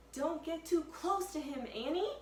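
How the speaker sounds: high urgent call to his sister; Jack shouting. Acted. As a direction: warn her off, high and loud. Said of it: "Jack shouted".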